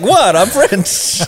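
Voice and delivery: high, loud mock French accent; hammed-up French accent. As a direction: shrug it off like a Frenchman. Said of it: "He's like".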